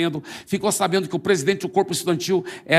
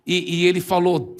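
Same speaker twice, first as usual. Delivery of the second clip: usual speaking voice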